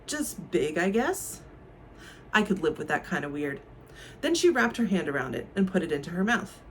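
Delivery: reading a novel aloud, lively and expressive; story reading. Acted. Booktuber reads a banned scene to viewers, lively reading. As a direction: read the scene like an audiobook.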